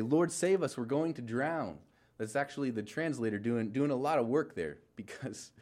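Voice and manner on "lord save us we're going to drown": raised, pleading cry to the Lord; panicked cry for help. Retold or imitated. Disciples in the storm beg the Lord, loud panicked cry. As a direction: call out in alarm as the boat sinks. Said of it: "In the disciples' words, they say".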